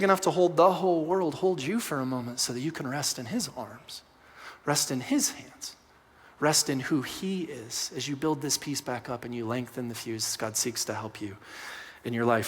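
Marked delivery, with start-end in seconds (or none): 1.3-12.5 gentle reassurance. Real, not acted. Tender invitation to rest in God.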